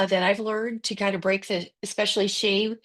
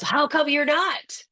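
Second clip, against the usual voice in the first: inner critic voice; 6 semitones higher than usual. Retold or imitated. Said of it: "there's the voice that goes".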